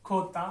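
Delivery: खोता said as a throaty kho-ta; खोता with a guttural kh; Spanish jota. Shown as a demonstration. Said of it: "तो पहला जो है मेरे पास".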